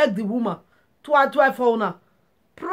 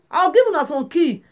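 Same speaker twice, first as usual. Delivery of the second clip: emphatic repeat; 5 semitones higher than usual. Shown as a demonstration. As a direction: repeat it with more force to drive it home. Repeats the promise, louder.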